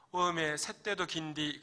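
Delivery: slow, drawn-out Jeolla dialect. Acted. Shot soldier's last words, slow Jeolla dialect. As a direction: lament slowly in a Jeolla dialect. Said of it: "전라도 버전입니다".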